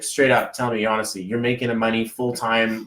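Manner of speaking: retold neighbor, pressing for honesty with a falling tone; low-key imitation of a neighbor asking in earnest; neighbor's probing question. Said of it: "He's like".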